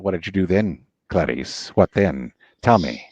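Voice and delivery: a low, coaxing Lecter prying for the truth; Hannibal Lecter. Acted. Playing Lecter to Clarice, low and coaxing.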